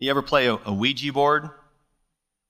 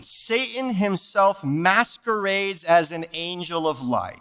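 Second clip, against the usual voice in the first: scripture reading; 3 semitones higher, slower than usual. Acted. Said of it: "Second Corinthians eleven fourteen".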